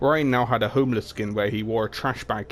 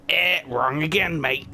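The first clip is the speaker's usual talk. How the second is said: higher teasing singsong; taunting; 6 semitones higher than usual. Acted. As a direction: rub it in, mocking. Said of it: "Junkrat taunted".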